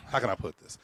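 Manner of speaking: a touch of Matt hedging; hesitant Matt. Retold or imitated. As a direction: ease into it like a careful friend.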